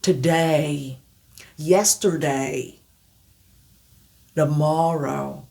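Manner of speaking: "Today, yesterday, tomorrow" slow, each day gliding; slow model words. Shown as a demonstration. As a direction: drill list said slowly. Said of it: "maintenir la prononciation".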